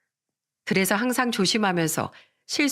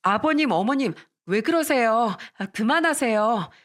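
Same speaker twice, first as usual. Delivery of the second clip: mildly alarmed daughter-in-law; a touch of dismay; startled pleading; 3 semitones higher than usual. Acted. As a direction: plead for them to stop, dragging the last words. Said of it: "깜짝 놀란 저는 시부모를 말리면서".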